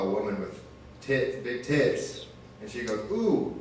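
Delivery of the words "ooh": put-on high, slow baby voice; imitating his little daughter; toddler voice. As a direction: coo like a greedy toddler. Toddler voice in bit.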